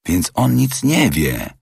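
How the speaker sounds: slow, lifted voice of keen interest; eager interjection. A narrator's reading. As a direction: seize on the news with interest. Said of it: "pochwycił żywo Fix".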